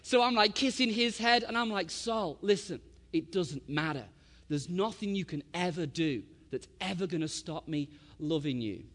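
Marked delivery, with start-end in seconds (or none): 1.9-8.8 calmer, settling voice of a comforting dad; tender reassurance. Retold or imitated. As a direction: reassure an upset son, tenderly. Father comforting his sobbing son.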